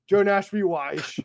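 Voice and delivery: "Weish" with a slushy SH ending; playful Connery slur into "Weish"; Sean Connery. Acted. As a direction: end "Weish" on a mock-Connery SH. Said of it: "it's always at the end of the fucking words".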